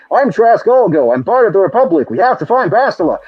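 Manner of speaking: a hint of eager video-game sidekick; Trask Ulgo. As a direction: play an earnest soldier announcing himself. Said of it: "Trask Ulgo walks in like".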